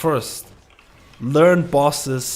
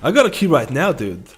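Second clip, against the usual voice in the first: much higher, louder excited pitch; hyped-up invite; 8 semitones higher, 4 dB louder than usual. Retold or imitated. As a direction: sell the group like a hype man. Playing the recruited tank.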